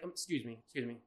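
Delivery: a hint of a timid teacher; mock teacher. Teacher calling him back.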